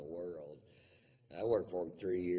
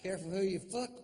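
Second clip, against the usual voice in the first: mock tough guy; 12 semitones higher than usual. Mock gangster boast.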